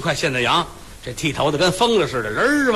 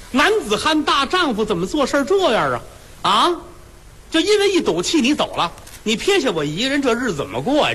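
higher-pitched hurt wife scolding her absent husband; wife's reproach; 6 semitones higher than usual. Acted. Abandoned wife scolding her husband who ran off, in a higher, hurt voice. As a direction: plead and reproach like a wife left behind.

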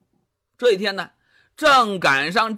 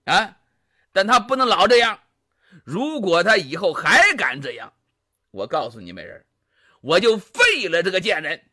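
君王霸道地放狠话，越说越响; 醉醺醺的暴君一边哄美人一边骂王后; 纣王发狠. Acted. 纣王骂王后安抚妲己. (纣王对妲己发狠骂王后)

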